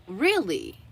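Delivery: lightly acted surprise, swooping up then down; mild mock amazement; imitated impressed reaction. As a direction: react as an impressed shop assistant. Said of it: "she was just immediately imp-, impressed".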